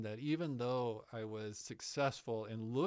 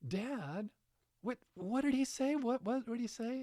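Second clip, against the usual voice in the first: put-on high, loud, eager kid asking; a boy pestering his dad, pitched up high; excited son; 11 semitones higher, 4 dB louder than usual. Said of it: "my son, Calvin, said".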